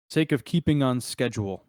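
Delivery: mildly pointed in-character reminder; a pointed nudge to the group. Acted. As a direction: make the reminder count, measured and firm. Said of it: "he'll say that very pointedly".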